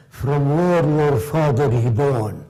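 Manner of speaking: put-on slow, halting Arab-accented English; a light Arab accent, slowed down; imitating broken Arab-accented English. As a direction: mimic the Arab leader's broken English, taking it slowly. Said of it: "That's the way he spoke".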